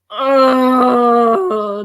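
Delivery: loud, drawn-out groan; aggravated groan. Acted. Game master voices the aggravated business boy, loud exasperated groan. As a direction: let out a long exasperated "oh". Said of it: "business boy's aggravated".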